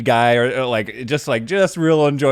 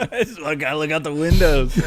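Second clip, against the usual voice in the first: laughing echo. Retold or imitated. Echoing the kid's wish, laughing.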